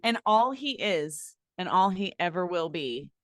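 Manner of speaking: slow, low mock-solemn pronouncement. Friend mocking the ex in a slow, low mock-solemn verdict. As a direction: intone it like a grave verdict, drawn out.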